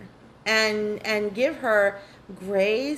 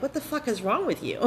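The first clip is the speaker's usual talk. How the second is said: laughing mock scolding; 3 semitones higher than usual. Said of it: "you wouldn't be like".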